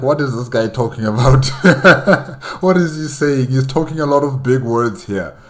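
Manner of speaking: quick, bewildered orc grunts with a laugh; mock the dim orcs, baffled and quick; confused orcs. Commentator mocking orcs baffled by the boss's speech, quick and bemused. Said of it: "these guys are like".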